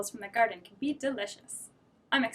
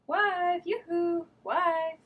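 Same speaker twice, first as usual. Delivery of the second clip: calling out; 7 semitones higher, much slower than usual. Acted. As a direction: call across the yard for her. Farmer calling his wife.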